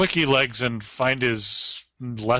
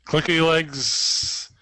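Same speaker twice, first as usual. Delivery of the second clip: slow, higher repeat of clicky legs; mimicking creature, higher; 4 semitones higher, much slower than usual. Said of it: "echoes the creature".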